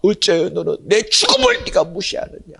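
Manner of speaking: ordinary talk, nothing marked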